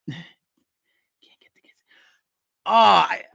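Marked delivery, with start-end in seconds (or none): 0.1-1.7 breathy sighed whisper, slow and trailing. Acted. Muttering a sighing aside about the kids. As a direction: let the words go out on a tired sigh.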